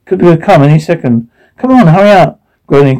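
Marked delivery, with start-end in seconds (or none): 1.6-2.4 high urgent call; urgent shout. Acted. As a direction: hurry them along, loudly. Urging others before storm.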